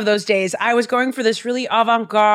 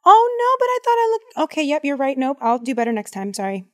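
sheepish scolded self; faster than usual. Retold or imitated. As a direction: start with a bright protest, then fold apologetically. Voicing herself scolded by Jesus.

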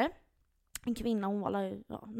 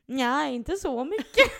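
laughing; 4 semitones higher, 7 dB louder, much slower than usual. Retold or imitated. Own sheepish quote, laughing.

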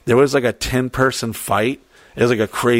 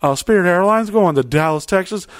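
mock airline announcer, raised pitch; gate announcement; 6 semitones higher than usual. Gate agent telling passengers about a moved gate, mock announcer voice. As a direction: imitate a bumbling gate agent on the speaker. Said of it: "I heard on the".

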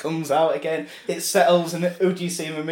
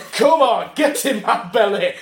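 taunting shout; 4 semitones higher, 4 dB louder than usual. Acted. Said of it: "He's going".

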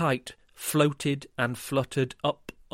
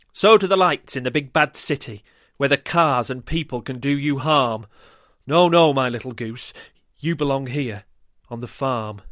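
warning mother; 6 dB louder than usual. Acted. Mum warns Goose.

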